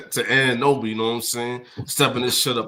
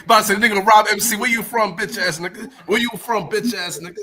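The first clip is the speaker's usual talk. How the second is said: loud call-out; 6 semitones higher, 5 dB louder than usual. Real, not acted. Calling out a rival online.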